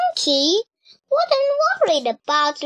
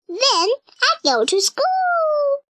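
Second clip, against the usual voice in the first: put-on much higher little girl voice; little sister Dora; 12 semitones higher than usual. A narrator's reading. Kid sister explaining her plan, high childlike voice. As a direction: explain it proudly like a small child. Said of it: "explained Dora".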